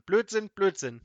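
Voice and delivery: loud, high repeated outburst; angry yell. A narrator's reading. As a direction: shout it twice in exasperation. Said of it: "schrie Petrosilius Zwackelmann".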